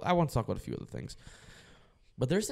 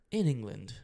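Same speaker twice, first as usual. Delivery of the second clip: put-on British accent; 2 semitones higher than usual. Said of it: "I'm gonna try to do an accent here".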